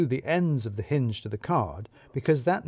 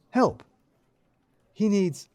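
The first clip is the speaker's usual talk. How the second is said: mock plea; 7 semitones higher, slower than usual. Exaggerated plea for help.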